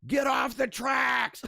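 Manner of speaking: slow, booming mock command over a loudspeaker; booming intercom voice. Reading a chat story, booming intercom order. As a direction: boom it out like an announcer telling someone off the tracks. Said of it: "a voice boomed over the intercom".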